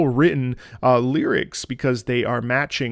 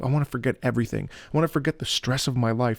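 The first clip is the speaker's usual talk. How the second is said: pleading. Shown as a demonstration. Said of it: "this sort of pleading quality here".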